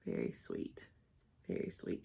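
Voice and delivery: whispered to herself, soft and quick; 自言自语地轻声耳语. Real, not acted. Admiring stitching, whispered to self.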